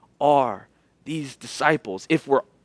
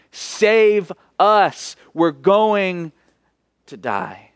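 pleading cry; 3 semitones higher, much slower than usual. Acted. Example cry to the Lord.

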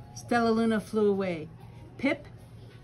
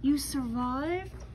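amazed; 4 semitones higher, slower than usual. Acted. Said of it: "cried Stella Luna".

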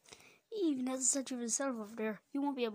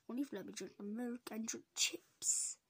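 whisper; 2 semitones lower, 6 dB quieter than usual. Acted. Bargaining, hushed.

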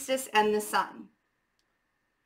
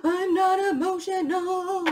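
high, slow, defensive mock denial; high-pitched, drawn-out protest, half laughing at herself; 9 semitones higher, slower than usual. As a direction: imitate her old self insisting she's fine. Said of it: "And I would be like".

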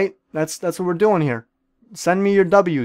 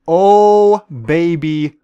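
triumphant cry; 6 dB louder, much slower than usual. Real, not acted. Gamer celebrates getting big, a loud whooping cry. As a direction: belt it out in triumph.

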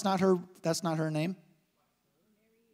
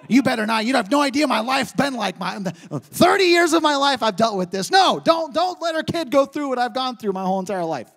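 wife protesting her name story, louder; wife's mock protest; 3 semitones higher, 5 dB louder than usual. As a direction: plead like the frustrated wife. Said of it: "She said".

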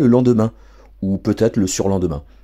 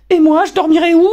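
much higher, louder quivering cry; shrill outraged girl; 8 dB louder than usual. Acted. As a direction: shriek it up high, appalled. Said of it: "frémit Harriet".

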